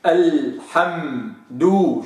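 الحمد very slow with m held; slow recitation. Shown as a demonstration. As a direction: draw out الحمد, linger on the m. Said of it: "شوف، دي كلمة مهمة".

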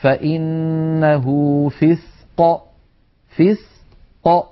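فسق drawn out very slowly, qaf released; tajweed qaf demo. Shown as a demonstration. Teacher shows students the resting qaf in فسق. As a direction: stretch فسق, ق opening apart. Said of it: "مثلًا نقول".

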